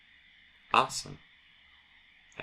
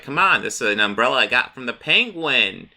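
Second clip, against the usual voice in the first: gleeful Joker; 4 semitones higher, 3 dB louder than usual. Retold or imitated. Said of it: "And then Joker's like".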